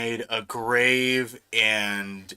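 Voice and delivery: low, slow mock contrition; YouTuber apology. YouTuber confessing to fans, low, slow mock-solemn voice. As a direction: confess slowly in a dropped voice. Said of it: "a YouTuber apology video".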